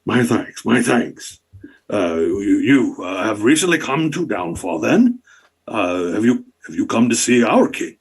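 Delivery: bow and scrape with delight; fawning duke. Acted. Duke Icrind fawning over the monarch, gushing.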